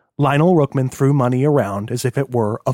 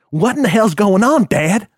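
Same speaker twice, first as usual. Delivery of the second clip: higher, panting bewilderment; panted protest; 8 semitones higher, 4 dB louder than usual. A narrator's reading. Son just ungagged to his father, panted protest. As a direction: demand it short of breath. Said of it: "he panted".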